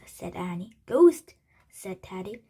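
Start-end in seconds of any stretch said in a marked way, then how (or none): 0.8-1.3 loud, high burst; alarmed exclamation. A narrator's reading. Teddy spots pieces moving by themselves, alarmed loud cry. Frightened children see chess pieces move.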